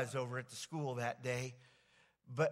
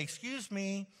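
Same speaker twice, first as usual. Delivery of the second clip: gentle, slow rehearsed address; slower than usual. Pretend. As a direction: say it slowly and kindly, like rehearsing. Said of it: "I'm gonna say".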